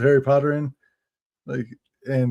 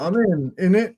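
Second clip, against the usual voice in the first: mock British accent; 4 semitones higher than usual. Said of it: "British guy".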